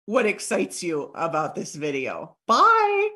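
brisk enthusiasm with a bright sign-off; excited. Shown as a demonstration. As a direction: sound keen to hear back. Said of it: "Can you hear the excitement in my voice?".

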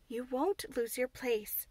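slow, steady reassurance; calm the frightened maid; Mary soothing Martha, slowly; reassuring Mary. Acted. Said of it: "said Mary".

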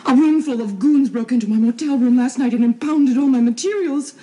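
outraged. Acted. Woman telling Tom about the raid, loud and outraged. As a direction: blurt out the raid in indignant fury.

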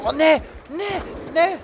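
loud, high protest; dismayed cries. Real, not acted. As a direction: wail at getting killed. Gets killed in game. (laute Verzweiflungsrufe)

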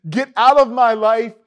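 mock angry outburst; fired-up mock fury; hard metal rage. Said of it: "turns into more like hard metal".

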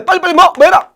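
loud rising prompts to the class; teacher pushing students for 날라; urging quickly. Acted. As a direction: hurry them to the answer.

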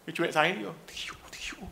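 hushed, voiceless whisper; mimicked whisper. Preacher mimics onlooker gossiping about the weeper, whispering. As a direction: whisper it under the breath, as an aside.

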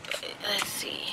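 soft whisper with a laugh. Real, not acted. To viewers while parking, whispering with a laugh. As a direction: murmur it under her breath, unsure. Hushed aside in the driveway.

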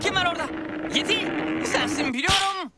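calling out. Acted. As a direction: call out to whoever is hiding. Calling out to hidden Yeti.

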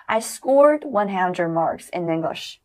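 very slow, clear drill line; slow repeat-after-me. Shown as a demonstration. Teacher leads students through the sentence, very slow. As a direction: stretch it out for students to follow. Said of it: "跟星火老师来一次".

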